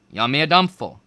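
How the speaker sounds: loud proud call of the spell; shouted. A narrator's reading. Student shouting the spell at his calabash, loud. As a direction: shout the magic words out. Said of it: "He shouted".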